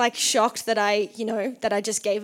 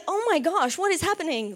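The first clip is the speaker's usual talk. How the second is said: higher, bewildered gasp of a question; stunned; 6 semitones higher than usual. Retold or imitated. Hearing the offer, a high bewildered oh my gosh. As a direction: sound caught completely off guard. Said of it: "I was like".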